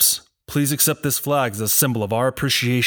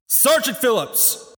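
stiff barking toy soldier; 13 semitones higher, slower than usual. Acted. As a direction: bark the name like a drill sergeant. Colonel calls the roll.

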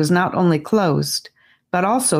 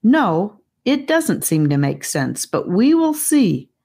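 put-on calm boy; 5 semitones higher than usual. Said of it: "said a voice from the other side".

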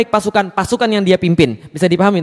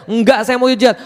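stubborn refusal; 4 semitones higher than usual. Acted. Acted stubborn old man refusing.

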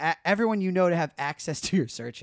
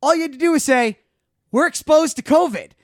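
higher and louder, slowing at the end; exasperated scolding; 10 semitones higher, 10 dB louder than usual. Retold or imitated. Scolding her friend about his bad lie, exasperated. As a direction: lecture a friend, half laughing. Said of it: "I go".

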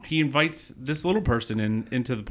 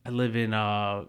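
put-on mild drunk voice; 4 dB quieter, slower than usual. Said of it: "he's drunk".

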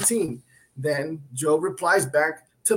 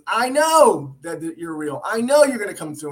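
mild mock exclamation; 6 dB louder than usual. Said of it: "same kind of exclamation that he's screaming out".

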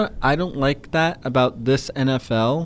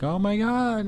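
high but soft mock exclamation; retold amazement; 8 semitones higher, 4 dB quieter than usual. Retelling the Yankees comeback, amazed. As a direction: replay the thrill without volume.

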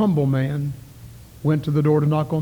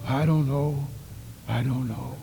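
lost answer; 6 dB quieter than usual. Acted. Lost soul answers the hail.

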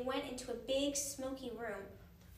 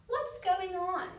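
surprised; 6 semitones higher, 6 dB louder, slower than usual. Acted. Woman roused from cabin.

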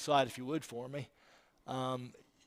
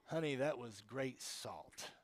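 mock silly praise; 8 dB quieter than usual. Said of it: "you don't look at your wife and say".

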